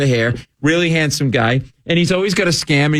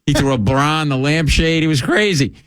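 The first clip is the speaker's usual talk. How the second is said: deadpan sarcasm; 2 semitones higher than usual. Retold or imitated. Telling the cop the burglar trashed it, mock agreement. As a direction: play along with a straight face, sarcastically. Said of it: "I'm like".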